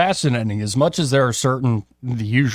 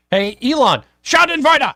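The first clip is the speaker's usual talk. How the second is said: much higher, louder, barked; aggressive; 11 semitones higher, 5 dB louder than usual. Shown as a demonstration. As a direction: bark the word like a rally cry. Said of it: "hands need to stay in your pockets".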